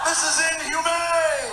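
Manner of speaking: high, slow hammed-up protest; whiny mock outrage. Son complaining about basic training, hammed-up whine. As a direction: wail it like a spoiled teen.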